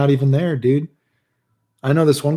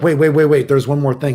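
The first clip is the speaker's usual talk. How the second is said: mildly urgent, louder retold plea to wait; urgent interjection; 3 semitones higher, 5 dB louder than usual. Friend turning back as he starts to leave, mildly urgent. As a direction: imitate someone hurriedly stopping to add something.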